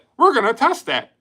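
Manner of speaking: uppity, very high, loud, fake-cheerful voice. Mimicking an annoying guy who said it, in a mock high, uppity fake-happy voice. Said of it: "he says it in that high pitch, uppity, fucking fake happy voice".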